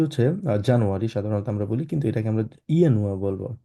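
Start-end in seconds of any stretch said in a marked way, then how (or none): 2.7-3.1 ইয়ানুয়া with an opening Y sound. Shown as a demonstration. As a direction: say ইয়ানুয়া as "ya-nu-a", not with an English J. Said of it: "কারণ এটাকে আমরা ইয়ট বলি". (ইয়ানুয়া, শুরুতে জ নয়, ইয়)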